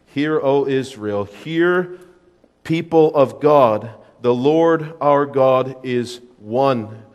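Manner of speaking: slow, measured scripture recital; slow solemn recitation. Acted. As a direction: recite it slowly like a prayer. Recites Shema slowly.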